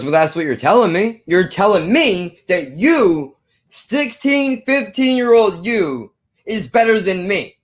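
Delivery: mildly indignant imitation, climbing high in pitch; upset. Manager challenged by fifteen-year-old, imitated upset disbelief. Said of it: "he was very upset with me".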